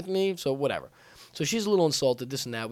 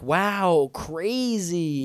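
put-on unconvinced normal girl; 3 semitones higher, 4 dB louder, much slower than usual. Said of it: "any normal girl would be like".

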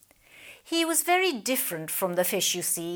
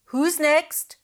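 calling out; 7 semitones higher, 5 dB louder than usual. Acted. Pelican calls out.

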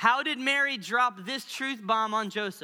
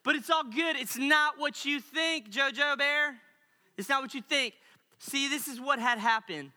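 playful mock pleading; pleading Mary. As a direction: sweet-talk a betrothed, lightly hammed-up. Acted Mary pleading with Joseph.

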